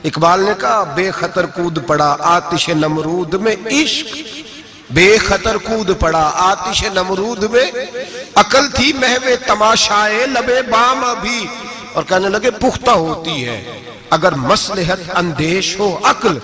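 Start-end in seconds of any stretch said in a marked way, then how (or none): 0.8-11.5 slow, drawn-out recited verse; poetry recitation. Acted. Reciting Iqbal's couplet. 12.5-16.4 slow, drawn-out recited verse; poetry recitation. Acted.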